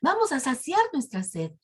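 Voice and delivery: high, excited calling; acted thirsty crowd's eager call; calling others over. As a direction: beckon everyone over in a high voice. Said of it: "empezaron a decirse unos a otros".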